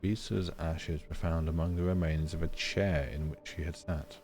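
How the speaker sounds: calm documentary read; reading aloud. Acted. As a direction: read the case file evenly. Reads in-game document aloud.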